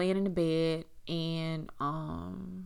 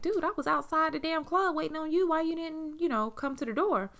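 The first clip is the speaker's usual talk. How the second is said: high, loud complaint; angry, raised voice; 10 semitones higher, 3 dB louder than usual. Retold or imitated. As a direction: scold him angrily. Retold angry confrontation.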